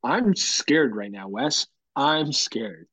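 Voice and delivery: slow, drawn-out pretend fright; mock fear. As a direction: play scared for an angry child. Jokey parent reply to angry child.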